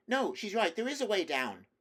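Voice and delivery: high, loud call. A narrator's reading. Edmund's voice from behind Lucy, calling out high and loud. Edmund calls down after the shouting.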